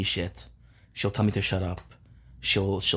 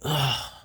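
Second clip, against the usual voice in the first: weary, exasperated groan; real groan of frustration; frustrated groan; 2 semitones higher than usual. Real, not acted. Vlogger fed up with having to complain, frustrated groan.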